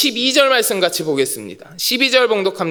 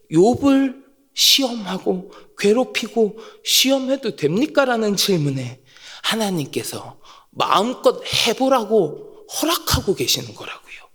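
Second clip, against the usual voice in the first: ordinary talk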